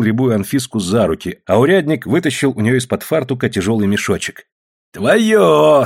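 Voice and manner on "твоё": louder sneering echo of her word; mocking. A narrator's reading. Sergeant mocking the woman over her pouch, sneering. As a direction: throw her word back with scorn. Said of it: "с насмешкой сказал урядник Попов".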